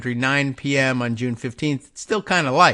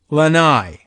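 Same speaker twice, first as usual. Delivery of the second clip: "lanai" as luh-NIGH, louder and falling; second-syllable stress; 5 dB louder than usual. Shown as a demonstration. Host settling the pronunciation, "lanai" stressed on the second syllable. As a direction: land firmly on the NAI of "lanai". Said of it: "which syllable the stress gets".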